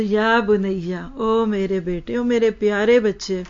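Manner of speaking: slow, tender call to a son; loving call. Shown as a demonstration. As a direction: call the child with love, drawn out. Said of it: "अपनी औलादों को प्यार से बुलाते".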